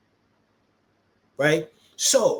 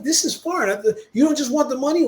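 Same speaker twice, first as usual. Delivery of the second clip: retold surprise; 8 semitones higher than usual. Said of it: "I was like".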